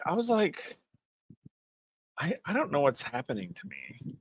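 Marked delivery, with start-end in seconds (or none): 2.2-4.2 hushed, retold tearful bewilderment; teary-eyed. Host recalling getting emotional at the scene, teary-eyed. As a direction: softly imitate being overcome and baffled. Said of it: "I got teary-eyed".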